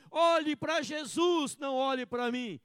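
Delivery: slow, loud mock humility; wrong Christian's line. Pastor mimicking the wrong kind of Christian, loud and slow. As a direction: voice the false humble Christian. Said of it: "ele não fala assim".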